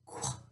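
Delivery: "Qu-a-k" split into its sounds; tapping sounds. Shown as a demonstration. Teacher tapping out a word for kids, segmented. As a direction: tap out "Qu-a-k" sound by sound. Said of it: "I'm going to tap it out".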